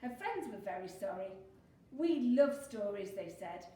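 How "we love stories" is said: put-on loud, eager children's chorus. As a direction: call it out keenly. Friends eagerly reply.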